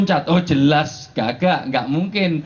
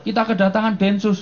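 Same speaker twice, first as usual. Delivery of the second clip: raised worried wife's voice; voicing a wife; 5 semitones higher than usual. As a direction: warn husband, lightly acted. Wife calls husband home, joke.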